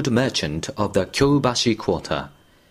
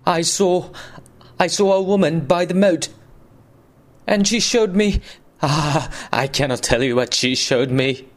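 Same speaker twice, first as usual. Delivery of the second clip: higher, breathless terror; terrified; 6 semitones higher than usual. Acted. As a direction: blurt what you saw, shaking with fear. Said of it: "gasped the terrified man".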